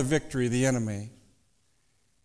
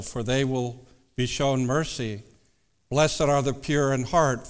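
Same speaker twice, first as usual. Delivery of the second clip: scripture reading; 2 semitones lower than usual. Acted. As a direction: read the verses with reverence. Reads scripture aloud.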